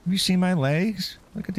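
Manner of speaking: high mock tough talk to the villager; silly high voice. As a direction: squeak out a cocky comeback. Player answers NPC in high silly voice.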